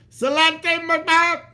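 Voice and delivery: high, slow, hammed-up toast; proclaiming toast. Toasting listeners with a mangled Scottish saying, high and slow. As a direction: raise a mug and bellow it out, slowly. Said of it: "raise your mugs high and proclaim".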